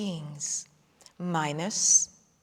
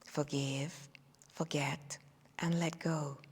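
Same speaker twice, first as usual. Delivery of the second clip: whispering; 5 semitones lower, 6 dB quieter than usual. Acted. Letting go, voice fades to whisper.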